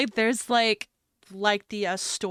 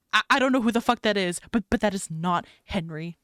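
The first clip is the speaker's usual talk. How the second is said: panicked; 4 dB louder, faster than usual. Acted. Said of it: "Mad panics".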